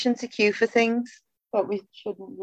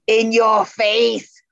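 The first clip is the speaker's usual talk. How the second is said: mock taunt; 4 dB louder, much slower than usual. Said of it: "and shout".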